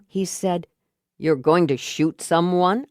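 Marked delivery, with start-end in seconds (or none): 1.2-2.8 getting angry. Acted. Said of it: "Getting angry now".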